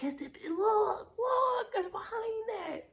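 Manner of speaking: high, slow squeaky fairy calling; excited fairy voice. Pretend. Fairies urging you to look behind the veil, squeaky and excited. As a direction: point it out like an eager little fairy. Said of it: "They're like".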